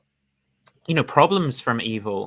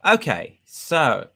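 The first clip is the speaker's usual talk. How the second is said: imitating Oppie's reset; 4 semitones higher, 5 dB louder, much slower than usual. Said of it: "he always goes".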